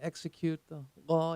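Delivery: ordinary talk, nothing marked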